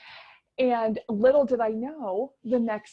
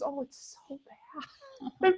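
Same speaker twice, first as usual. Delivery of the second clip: mock ugly cry; 6 semitones higher than usual. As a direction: let it sink into an imitated sob. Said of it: "like, that ugly cry".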